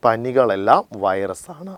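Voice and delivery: slow, deliberate repeat for the class. Shown as a demonstration. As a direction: spell out each word slowly so it sticks. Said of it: "എന്താ പറഞ്ഞേ". (പതുക്കെ ഊന്നി ആവർത്തിക്കുന്നു)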